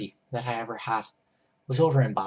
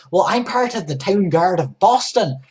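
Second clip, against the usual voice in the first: higher, louder scolding guard; angry guard; 8 semitones higher, 10 dB louder than usual. Retold or imitated. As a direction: lay down the law, indignant. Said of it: "seemed really angry".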